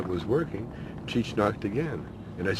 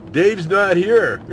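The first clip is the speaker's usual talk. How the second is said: slow, high, louder deadpan; 10 semitones higher, 11 dB louder, much slower than usual. Retold or imitated. Refusing Dave through the door, slow deadpan. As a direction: drop it flat and slow.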